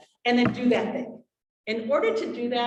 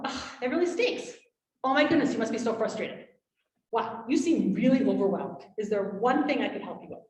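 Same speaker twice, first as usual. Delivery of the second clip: validating. Shown as a demonstration. Parent soothing an overwhelmed child, gently validating. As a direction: show the child you get it. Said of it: "it's not like you're saying anything great".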